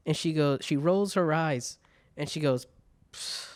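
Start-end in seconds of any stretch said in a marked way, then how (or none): 3.1-3.5 short voiceless puff of scorn; imitated scoff. Shopper to the stranger who bumped her, mock scoff. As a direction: imitate a dismissive little scoff. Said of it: "scoffs at me".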